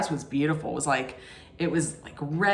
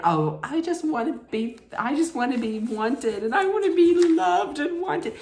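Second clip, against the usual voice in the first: whiny, pleading mock sob voice climbing much higher; mock whiny Madison; 8 semitones higher than usual. Madison running out after the bad kiss, hammed-up whiny wail. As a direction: imitate a crying contestant begging, pitch shooting way up at the end. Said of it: "So she's crying".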